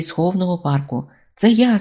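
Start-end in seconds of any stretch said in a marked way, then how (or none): 1.3-1.8 high loud cry; shouted. A narrator's reading. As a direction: yell it out proudly. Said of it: "закричав хтось".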